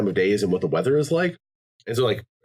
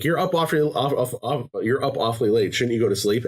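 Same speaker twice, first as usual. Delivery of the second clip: mock nagging game; 3 semitones higher than usual. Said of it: "some of them, it's like".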